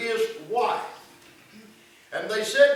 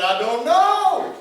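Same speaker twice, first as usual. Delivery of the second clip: mock wife; 7 semitones higher, 7 dB louder, slower than usual. Wife answers why crying.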